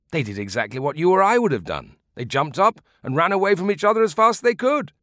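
put-on old man delivering the comic ending; old man's punchline. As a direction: deliver it with a grin. Punchline of the story.

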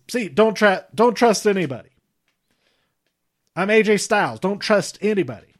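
lightly put-on Southern US accent impression; A J Styles. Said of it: "my very slight Southern accent impression of A J Styles".

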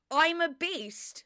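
slow hammed-up chant; mock beastly shout. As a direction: ham up his bedroom boast, dragging it out. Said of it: "he was shouting".

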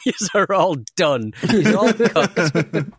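slow, loud, gloating send-off; hammed-up corporate farewell, slowed and loud; mock departing boss. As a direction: lay it on like a smug exec leaving for good. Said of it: "You do sort of go like".

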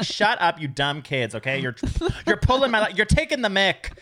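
a teacher snapping back in fake British; mock British. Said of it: "And I was like".

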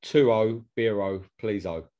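jokey fake Spanish, adding O to every word; mock Spanish accent. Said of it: "I don't know why I'm putting that accent on".

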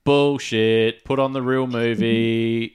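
mild mock yell; retold heckler's yell. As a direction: call it out like a disgruntled moviegoer, half-shouted. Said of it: "someone in the theater yell out".

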